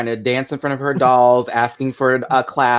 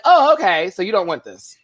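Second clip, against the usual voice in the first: sassy mock reaction; 5 semitones higher than usual. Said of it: "And it was like".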